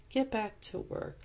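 light teasing order; playful. Acted. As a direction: toss it off with a tease. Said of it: "I say playfully".

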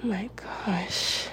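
soft, whispery coaxing; hushed coaxing. Acted. Girlfriend coaxing her shy partner, hushed. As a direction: coax very softly, close up.

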